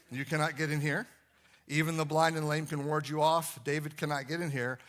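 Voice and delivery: put-on hammy French accent taunting from the walls; mock French guards jeering at David; bad French accent. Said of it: "in bad French accents".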